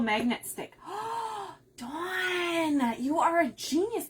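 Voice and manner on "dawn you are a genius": thrilled shout of thanks; excited praise. Real, not acted. Crafter thanking Dawn for her idea, excited high shout.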